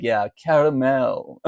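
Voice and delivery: slow "caramel" as "ka-ra-MEL", full last syllable; insisting on fancy caramel. Retold or imitated. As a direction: stretch "caramel" out in three syllables, correcting the barista. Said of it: "they always say caramel back to me".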